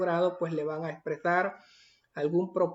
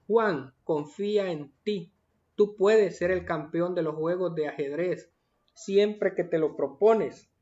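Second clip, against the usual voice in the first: encouraging. Shown as a demonstration. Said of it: "mensaje de ánimo y de confianza".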